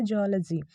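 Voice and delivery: "जूलॉजी" as JAW-luh-zee; short "luh" in "जूलॉजी"; correct pronunciation. Shown as a demonstration. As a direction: model "जूलॉजी" with open first vowel. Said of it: "इसका correct pronunciation जो है".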